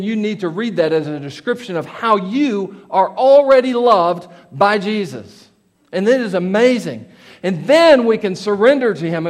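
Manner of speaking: driving, emphatic sermon delivery; impassioned preaching. Real, not acted. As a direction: preach it with rising conviction. Preacher in full flow.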